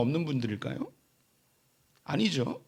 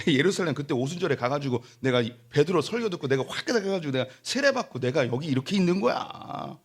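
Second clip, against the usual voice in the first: boastful believer; 3 semitones lower than usual. Retold or imitated. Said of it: "하면서 자기의 출신과 자기의 배경을 자랑하게".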